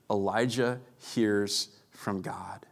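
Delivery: slow, breathy whispered line. Acted. Pastor showing God's whisper to his listeners, whispering. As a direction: whisper it as if sharing a secret.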